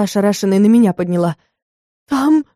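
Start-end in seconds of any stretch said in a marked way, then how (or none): 2.1-2.4 voice breaking. A narrator's reading. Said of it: "проговорила срывающимся голосом".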